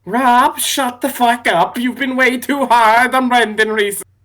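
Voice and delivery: playful fake Swedish scolding; hammed-up Swedish accent. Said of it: "Why did I go into, like, a Swedish accent?".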